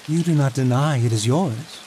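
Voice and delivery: lightly amused lord. Acted. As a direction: toy with the boy, amused.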